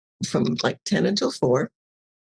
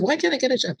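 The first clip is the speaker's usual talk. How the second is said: pleading self; 7 semitones higher, faster than usual. Retold or imitated. Arguing with her ego.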